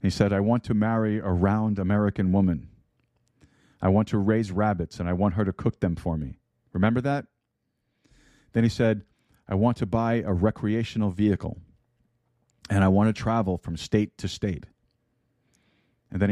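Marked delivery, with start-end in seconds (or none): 0.3-6.4 put-on mild, amateur Russian accent; a loose attempt at a Russian accent; poor Russian accent. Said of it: "Not a very good Russian accent". 9.5-14.7 put-on mild, amateur Russian accent; a loose attempt at a Russian accent; poor Russian accent. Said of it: "Not a very good Russian accent".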